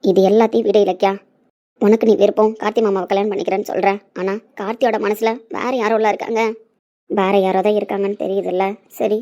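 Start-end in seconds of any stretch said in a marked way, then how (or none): none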